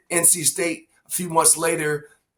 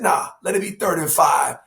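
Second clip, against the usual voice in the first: retold shout. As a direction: bark the call out with confidence. Retold coach call, shout heard.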